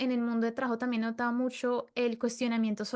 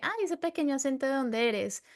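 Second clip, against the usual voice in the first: curious French asker; 3 semitones higher than usual. Retold or imitated. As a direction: lightly imitate a charmed stranger asking fast. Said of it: "en Francia preguntan de que".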